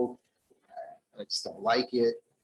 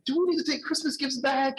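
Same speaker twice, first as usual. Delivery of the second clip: high, loud mock-distraught wail; retold tearful wail; 5 dB louder than usual. Wife asking husband after he quit, imitated tearful wail. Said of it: "She just broke down in tears".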